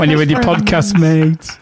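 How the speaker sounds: playful dig said through a laugh, slowed down; laughing tease. Real, not acted. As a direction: laugh while ribbing him about his podcast mates. Teasing co-host about podcast conference.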